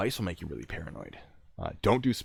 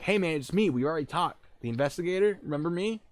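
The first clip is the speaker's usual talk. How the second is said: higher-pitched call through a door; 9 semitones higher than usual. Retold or imitated. Investigator reminds man who he is, calling out. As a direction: coax him with a high call.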